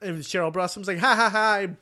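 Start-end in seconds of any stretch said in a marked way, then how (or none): 1.0-1.7 mock villain gloat. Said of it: "she says like that".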